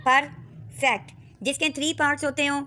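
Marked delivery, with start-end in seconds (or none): 0.1-1.1 परफेक्ट drawn out slowly, falling at the end; slow model word. Shown as a demonstration. Teacher showing a two syllable word, slow falling read. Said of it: "ये भी two syllable word कहलाएगा".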